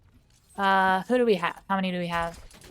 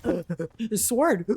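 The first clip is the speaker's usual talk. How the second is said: weeaboo voice. Retold or imitated. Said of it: "my weeaboo brain is like".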